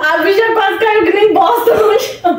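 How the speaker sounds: slow, laughing exclamation; laughing shout. Real, not acted. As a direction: shout it out slowly through laughter. Friend nearly fell, everyone laughing. (gritando devagar entre risadas)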